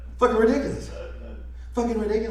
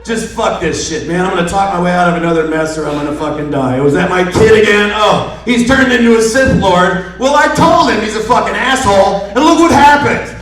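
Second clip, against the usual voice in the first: weary grumble building to loud exasperation; Han Solo; 4 dB louder than usual. Acted. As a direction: start resigned, build into an exasperated rant. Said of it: "That was totally Han Solo, ready to fucking die".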